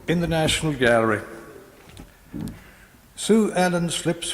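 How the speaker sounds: measured, rhythmic verse reading; poetry reading. Acted. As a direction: read the poem with slow weight. Poet reads poem aloud.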